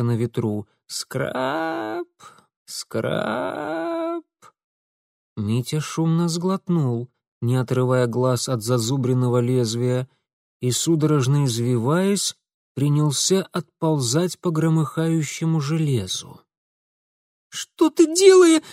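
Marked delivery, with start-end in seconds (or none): 0.9-4.2 high thin creak of metal; creaking imitation. A narrator's reading. Narrator imitating a rusty gutter creak. 17.5-18.6 put-on high, loud shrieking boy; piercing shriek. A narrator's reading. Boy lying on Mitya's chest shrieks in panic. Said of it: "пронзительно взвизгнул".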